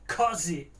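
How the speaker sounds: "Cozy" with an open aw, falling; correct pronunciation. Shown as a demonstration. Streamer repeating the word to check it, open-vowel "Cozy". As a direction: say "Cozy" as "cawzy", dropping. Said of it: "Is that correct?".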